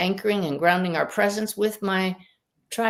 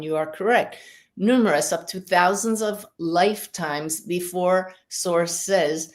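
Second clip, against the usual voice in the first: measured delivery with pauses between phrases; lightly formal channelled voice, weighing the phrases; channelling spirit guides. Acted.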